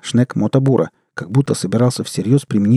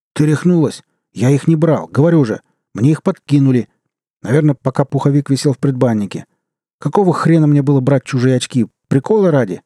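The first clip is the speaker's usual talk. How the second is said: slightly higher, mildly heated denial; indignant protest; 4 semitones higher, 4 dB louder than usual. Acted. Accused man protesting the stuff was planted, indignant. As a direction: protest your innocence, a touch pushed.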